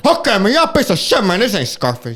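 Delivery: lightly put-on Cuban gangster accent, pitch jumping up at the start; hammed-up Tony Montana accent, mostly in his own voice; mock Tony Montana accent. Protester at the movie theater doing a mock Tony Montana accent. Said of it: "freaking doing the accent".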